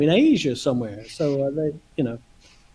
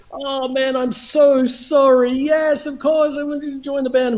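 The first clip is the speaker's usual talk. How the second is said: retold effusive apology; 6 semitones higher than usual. Bandleader apologizing to the new member, effusively reassuring. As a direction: imitate gushing reassurance.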